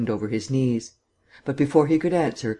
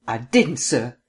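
burst out; slower than usual. Acted. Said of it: "The words burst from his lips".

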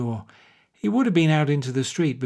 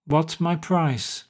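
very slow, heavy, gloomy question; gloomy demand; 3 semitones higher, much slower than usual. Acted. Pat gloomily asks Bannerson his price, slow and heavy. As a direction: drag it out, down in the mouth. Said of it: "demanded Pat gloomily".

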